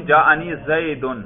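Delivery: زیدن slowly, with an audible "-un" ending; pronounced damma. Shown as a demonstration. Teacher proving the damma is heard when spoken, pronounced damma. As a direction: sound out the short u in زیدن, Zay-dun. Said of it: "اس پر ضمہ پڑھ رہا ہوں".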